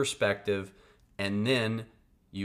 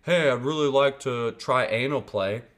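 asking a bit louder, in a lightly voiced partner; a hint of a character voice, playful request; a light put-on partner voice; 3 semitones higher, 5 dB louder than usual. Partner hinting at what they want, lightly voiced. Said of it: "If I look at someone and say".

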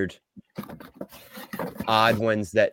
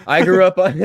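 excited; 9 semitones higher, 6 dB louder than usual. Real, not acted. Thrilled by childhood toys.

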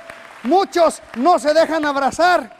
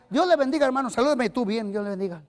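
stiff mummy greeting; 2 semitones lower, faster than usual. Retold or imitated. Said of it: "Como momias".

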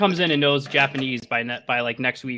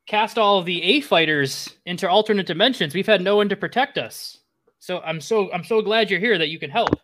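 put-on high, swooping old man voice; high-pitched, dramatic old sage; relieved old hermit; 6 semitones higher, 4 dB louder than usual. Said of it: "the old hermit".

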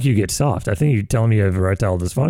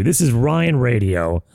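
slow host intro; much slower than usual. Shown as a demonstration. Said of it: "I'll do it for you".

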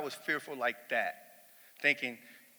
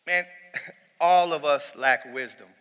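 laughing; 6 dB louder than usual. Real, not acted.

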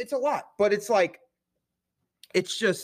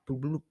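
soft, babbled "bloo-bloo-bloo"; imitated pouring sound; 5 semitones lower, 7 dB quieter, faster than usual. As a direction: mimic liquid going in with a quick soft burble. Imitated noise of pouring drink ingredients.

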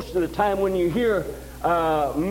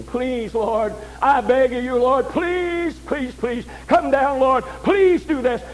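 a hint of a desperate pleader; mock begging prayer; 3 semitones higher, slower than usual. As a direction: mimic someone begging God over and over. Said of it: "think faith is begging".

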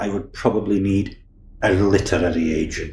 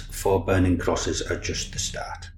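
dramatic tagline read; 3 semitones lower, 6 dB quieter than usual. Shown as a demonstration. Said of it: "the tagline for that is".

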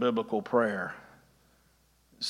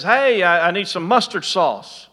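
mock shout; 3 semitones higher, 4 dB louder than usual. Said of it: "he shouts over to".

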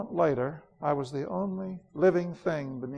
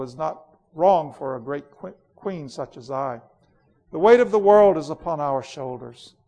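louder, scornful royal tirade; imperious queen Jadis, bitter; 3 dB louder than usual. Acted. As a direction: rage coldly against the sister. Queen's lines.

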